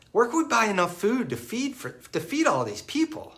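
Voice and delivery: Jesus teasing Philip with a playful question; tongue in cheek. Retold or imitated. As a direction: gently tease your friend. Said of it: "saying this with a smile, kind of tongue in cheek".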